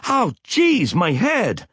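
very high cry of sudden pain; pained, high-pitched outcry. A narrator's reading. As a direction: cry out as pain hits your head. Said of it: "Sally cried out".

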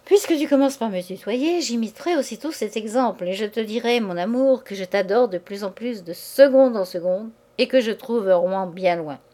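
lightly hammed-up stage lover; mock-theatrical declaration of love; actorly intonations. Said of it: "Il parlait maintenant avec des intonations d'acteur".

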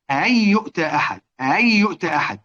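"أن يؤتى" with the second hamza softened; eased second hamza. Shown as a demonstration. Teacher showing students Ibn Kathir's reading, second hamza eased. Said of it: "يبقى يسهل".

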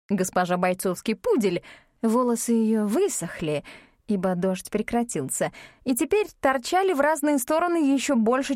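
ordinary delivery

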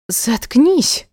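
high shrill shriek. Acted. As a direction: shriek it at him. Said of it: "взвизгнула девушка".

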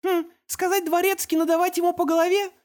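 put-on high child voice, puzzled then eager; toddler guessing. Little boy suggests hitting the waiter, high child voice. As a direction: offer the answer like a small boy.

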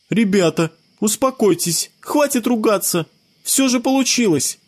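put-on high boy's voice, settling everyone; a boy breaking up the quarrel, high; calming child. A narrator's reading. Scott stops his friends arguing, high child voice. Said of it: "прервал всех Скотт Петерсон".

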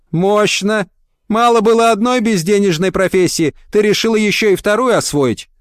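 high, pushy boss voice, mocking; brash sardonic interviewer. Woman boss grilling a philologist, high and sardonic.

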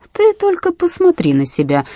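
high sneering dad; scornful father looking her up and down; disgusted father; father scolding. A narrator's reading. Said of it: "сказал папа".

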